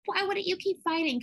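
high-pitched retold yell, no real volume; mock scream. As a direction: imitate an exasperated viewer yelling at the TV. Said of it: "screaming at home, being like".

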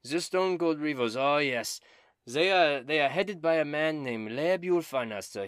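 high, loud and theatrical; Dobin, eager bard. Acted. Dobin bragging about dragon slaying, high and loud. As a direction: ham up the vainglorious bard.

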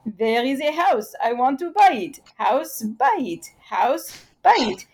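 put-on Israeli accent. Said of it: "in their Israeli accent".

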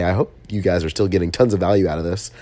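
stuffy, congested voice; talking through a blocked nose. Real, not acted. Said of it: "I still can't breathe through my nose entirely".

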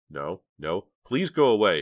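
pleading, swelling on the last words; beg, rising into an urgent plea; silent begging. A narrator's reading. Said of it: "she begged silently".

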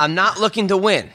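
measured quote from a tweet; deliberate read-aloud. Acted. Host reads the fighter's tweet back to him, deliberate. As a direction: read it out as a statement.

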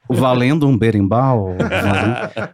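hyped-up radio giveaway announcer; radio host voice. Retold or imitated. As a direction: sell the prize like a radio host. Mock radio show giveaway.

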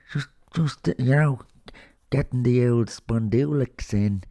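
put-on broad Dublin accent, chatty and cheeky. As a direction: lay on a thick Dublin accent. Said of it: "most of this introduction in a Dublin accent".

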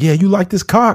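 high-pitched joking bedroom yell; mock yelling. Joking about yelling during sex, high mock yell. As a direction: call it out high, hammed-up for laughs. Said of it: "the only time I be yelling".

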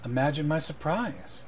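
measured lord, little change of voice; understated greeting from a nobleman; lightly voiced lord. Lord Stoneblade greets Dunce in the shop, understated. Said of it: "He goes".

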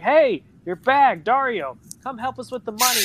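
lightly acted shout across the room; calling out. Accomplices calling Dario over in story.

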